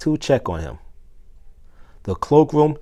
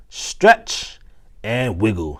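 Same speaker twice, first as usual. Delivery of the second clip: playful stretch call; much slower than usual. Acted. Teacher to pupils, playfully calling out the stretch. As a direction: lead the class in a stretch.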